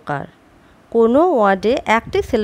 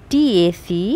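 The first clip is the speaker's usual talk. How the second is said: slow scrambled spelling; 3 semitones lower, much slower than usual. Shown as a demonstration. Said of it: "লিখি".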